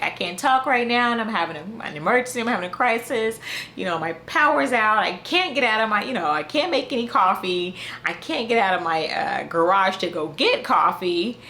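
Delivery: imitating a mild panic, pitch pushed up; freaking out. Flustered woman tells the man on the phone about her crisis, mock freaking out. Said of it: "freaking out".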